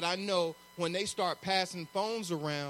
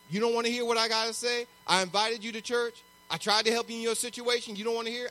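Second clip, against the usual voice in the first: quick, slightly raised grievance list; mock fed-up; 3 semitones higher, faster than usual. Preacher mimics a churchgoer quitting on someone, mock indignant. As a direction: act out someone indignantly giving up on a person.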